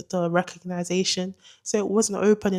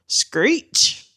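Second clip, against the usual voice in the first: sudden high, loud screech; imitated car screech; 6 semitones higher, 5 dB louder than usual. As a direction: screech it like a car pulling up fast. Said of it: "this loud noise like a car pulling up".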